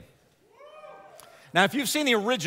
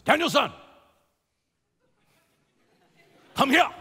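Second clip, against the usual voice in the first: firm call; 9 semitones higher, 5 dB louder than usual. Retold or imitated. Miyagi calling Daniel back.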